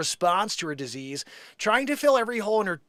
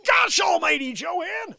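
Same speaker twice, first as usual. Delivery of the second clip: loud disgusted exclaim; 11 semitones higher, 5 dB louder, slower than usual. Real, not acted. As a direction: call out in disgust. Reacting to gross clip.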